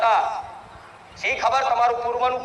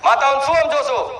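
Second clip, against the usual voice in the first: louder repeat with weight on શું; scolding the doubting devotees, louder; louder challenge; 5 dB louder than usual. Acted. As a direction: throw the question back at them, louder, stressing શું.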